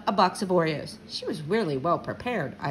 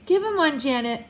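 raised-voice director's order; called out; 6 semitones higher, 4 dB louder than usual. A narrator's reading. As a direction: call it across the set, impatient. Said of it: "Mister Denberg called".

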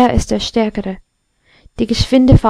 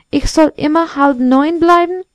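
higher-pitched, mildly affronted question; exclaimed question; 6 semitones higher than usual. A narrator's reading. Clock fearing it stays at half past eight, mild dismayed exclamation. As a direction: ask it in lightly voiced disbelief. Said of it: "rief die Uhr".

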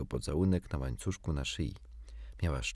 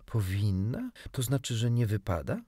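"Powinna?" as a mildly questioning echo; 3 semitones higher than usual. A narrator's reading. Wendy queries Peter's word about fairies, questioning echo. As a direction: pick up "Powinna" and query it with a rising tune.

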